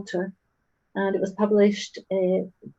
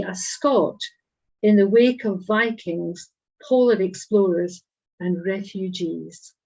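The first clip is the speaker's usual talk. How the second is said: measured recital, phrase by phrase; deliberate poem delivery with spaced-out phrases; poetry reading. Acted. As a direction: read it as verse, pausing between images. Reads second poem aloud.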